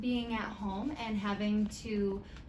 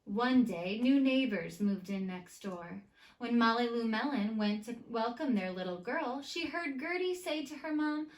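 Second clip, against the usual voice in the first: put-on lively read-aloud to children; story narration. A narrator's reading. Teacher reading a picture book to her students, lively storytime.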